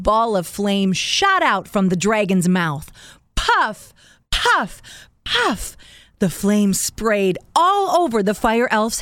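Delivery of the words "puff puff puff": rising, higher puffs; puffing sound effect. A narrator's reading. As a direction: puff each one higher. Narrator voices fire puffs.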